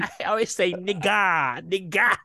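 high mock-indignant self-defence. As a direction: imitate a man protesting his innocence. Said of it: "he's just so indignant".

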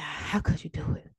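acted wounded, dying reproach; hurt and betrayed. Dying man asking his snake friend why, wounded reproach. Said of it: "the man with hurt in his eyes".

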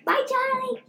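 high, growly pretend dragon. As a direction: say it like a little dragon. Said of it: "can you say bye, Charlie, in that, that dragon voice".

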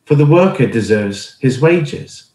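measured Bible reading, slowing and softening at the end; scripture reading. Acted. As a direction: read the verses calmly, letting the last line settle. Reads scripture passage aloud.

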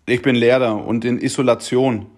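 beteuernd. Retold or imitated. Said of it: "sage ich".

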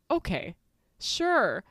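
mildly bemused, unbothered retort; unflappable. Retold or imitated. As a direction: let it slide off you, unimpressed. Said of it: "is very unflappable".

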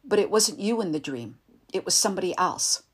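loud agitated shouting. Acted. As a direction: shout the dream out, still rattled. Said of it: "He was still shouting".

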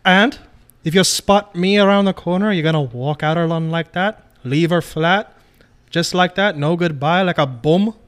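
mock British tough-guy voice, lightly done; shitty put-on British accent. Partner mocking the other in a bad British accent. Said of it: "The last shitty accent I can pull out".

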